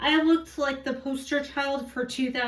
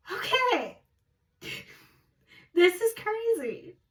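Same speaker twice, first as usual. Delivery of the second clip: high-pitched, mock-bewildered aside; incredulous reaction; 8 semitones higher than usual. Twin sisters woken by mother, high incredulous reaction. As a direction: react as if humoring someone crazy, pitched up.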